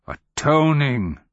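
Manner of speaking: high, loud, drawn-out ATONING; thunderous sermon climax; ringing cry. A narrator's reading. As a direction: let "Atoning" ring out across stone, high and slow. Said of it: "This last word rang metallic across the stone".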